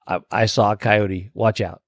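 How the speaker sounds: understated, dropped-down warning; mock neighbor warning. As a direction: imitate a wary neighbor's hushed alert. Mimics neighborhood app warning posts.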